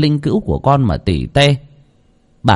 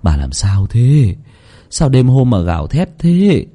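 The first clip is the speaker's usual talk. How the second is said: gentle; slower than usual. Acted. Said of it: "nhẹ nhàng".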